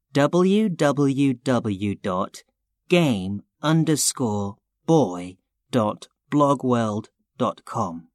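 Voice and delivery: slow, spelling out each part; dictating. Acted. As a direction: dictate it piece by piece. Spelling out a web address.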